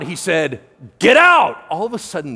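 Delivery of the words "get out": loud, high exorcist's shout; shouted command. Acted. Preacher acting Jesus casting out demons, shouted command. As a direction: shout it out as a sudden order. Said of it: "he shouted out".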